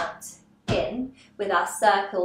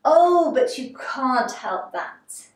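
higher, slow theatrical exclamation; Cat; 4 semitones higher, 4 dB louder, slower than usual. Acted. Teacher lightly voicing the cat's reply to Alice, slow and theatrical. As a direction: lightly act it, stretching the words. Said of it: "And then the cat says".

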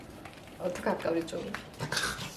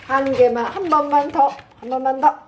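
loud, firm with the dog; louder, setting limits; 5 semitones higher, 5 dB louder than usual. Real, not acted. Bargaining with dog over treats.

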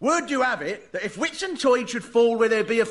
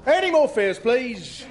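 lightly raised, higher call for fares; conductor calling out; 5 semitones higher, slower than usual. Acted.

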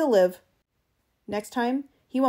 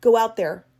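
loud, angry command; spat order; 9 dB louder than usual. A narrator's reading. Travis scorning the bribe, spat order. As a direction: spit the order out with force. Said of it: "glared at Eccles' checkbook and spat".

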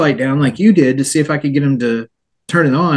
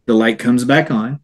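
usual speaking voice

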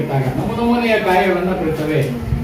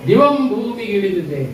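poem recitation; 2 semitones higher, slower than usual. Acted. Teacher reciting the verse to pupils, slow and sing-song. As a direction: lift each line and stretch it like a poem for children.

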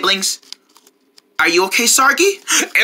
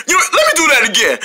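quick laughing repeat; 2 semitones higher, faster than usual. Acted.

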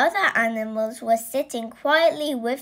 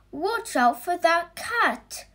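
higher-pitched shouted warning; 7 semitones higher than usual. Acted. The vet warning the room about the cat, shouting. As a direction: call out fast to warn everyone. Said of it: "shouted the vet".

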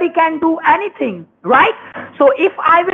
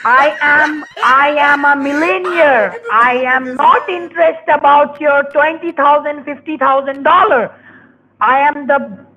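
raised, insistent voice; yelling. Real, not acted. Banking caller boasting to a customer, yelling. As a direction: yell it forcefully, leaning on each phrase. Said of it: "Why are you yelling at me?".

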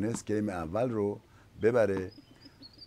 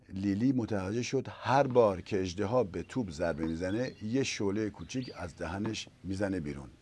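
put-on lively storyteller voice for kids; reading to children. A narrator's reading. Narrator reading a fairy tale to children, lively. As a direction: tell it like a bedtime tale to little ones.

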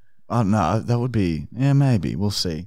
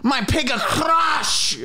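wailing higher; 10 semitones higher, much slower than usual. Acted. Repeated wailing line.

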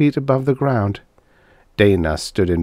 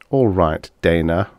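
coldly; 3 semitones lower than usual. Acted. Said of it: "Harvey said coldly".

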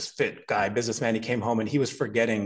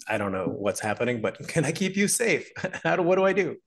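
laughing worried parent; 5 semitones higher than usual. Retold or imitated. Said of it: "I'm like".

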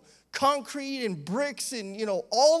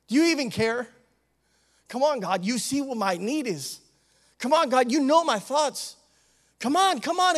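impatient urging; 2 semitones higher, 4 dB louder than usual. Acted. We begin to accuse God.

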